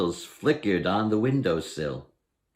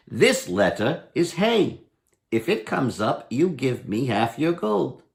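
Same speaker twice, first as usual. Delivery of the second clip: lightly voiced Herschel; 2 semitones higher than usual. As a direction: explain the rules like a crafty trickster. Herschel explains the dreidel rules.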